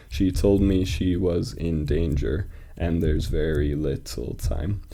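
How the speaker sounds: slow, measured verse recital; deliberate metrical reading; poem reading. Acted. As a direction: read slowly so each beat can be counted. Reads poem aloud.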